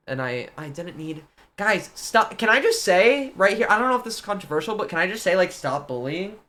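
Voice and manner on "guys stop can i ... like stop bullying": mock earnest plea.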